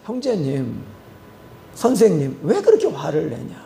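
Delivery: retold calm appeal. Preacher retells calming an angry man.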